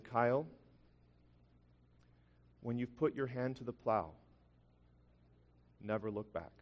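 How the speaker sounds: hushed, with long grave pauses; solemn counsel. Retold or imitated. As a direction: deliver it gently as a mentor's lasting word. Retells a pastor's solemn counsel.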